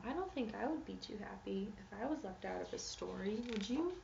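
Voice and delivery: soft, sympathetic whisper; confiding whisper. Acted. Reading to kids, sympathetic whispered aside. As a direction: whisper it like sharing a sad secret.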